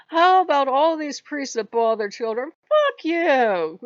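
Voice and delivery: loud, heated telling-off, punching each fuck you; loud furious tirade; angry rant. Retold or imitated. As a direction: vent years of anger straight at God.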